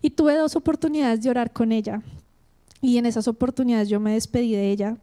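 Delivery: ordinary talk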